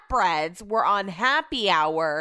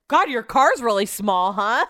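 louder, laughing through the words; laughing drunk remark; 6 dB louder than usual. Retold or imitated. Drunk husband teasing the driver about her car, laughing. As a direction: chuckle it out tipsy. Drunk Brett in tiny Uber.

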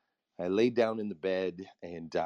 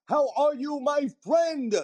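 much higher, louder repeat of the greeting; shouted greeting; 6 dB louder than usual. Real, not acted. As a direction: call it out to the whole room.

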